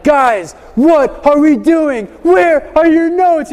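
high, slow, emphatic scolding; mock-stern teacher, pitched well up. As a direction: call out the class word by word, not truly angry. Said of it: "it's obvious I'm raising my voice".

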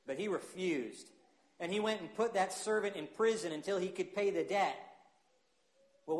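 measured, earnest Bible reading; scripture reading. Acted. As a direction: read the passage to the standing church. Pastor reads Matthew passage aloud.

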